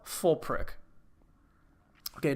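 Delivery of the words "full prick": hushed correction; breathy whispered jab; whispered aside. Real, not acted. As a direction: whisper full prick. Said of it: "Actually, you know what?".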